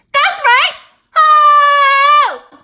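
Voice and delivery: very loud, slow, stretched-out, rising booming yell. Opening a video with a greeting and introduction, yelling. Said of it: "I have to yell".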